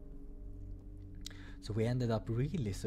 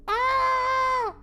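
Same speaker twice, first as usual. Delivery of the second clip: high startled yelp; 11 dB louder than usual. Acted. Reacts to lap invitation.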